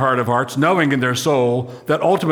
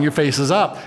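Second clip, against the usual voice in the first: smiling face. Shown as a demonstration. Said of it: "when you're smiling".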